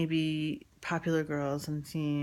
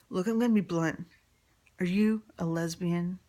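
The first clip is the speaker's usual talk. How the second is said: blunt father voice; 5 dB louder than usual. Retold or imitated.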